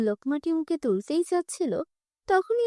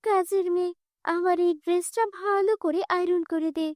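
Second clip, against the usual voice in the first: a haughty stepsister giving orders, pitched higher; bossy spoiled girl; 4 semitones higher than usual. Acted. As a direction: order the maid about, scornful.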